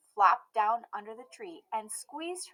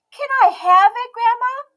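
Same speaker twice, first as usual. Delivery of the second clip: put-on high, loud pleading little girl; a child pleading with Grandma; begging Emmy; 14 dB louder than usual. A narrator's reading. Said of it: "begged Emmy".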